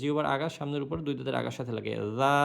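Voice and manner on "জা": "জা" as a soft th-like dhal; tongue tip on upper teeth for "জা"; gentle voiced dental start on "জা", vowel held; soft zal. Shown as a demonstration. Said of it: "জাল হরফটা আবার নরম করে".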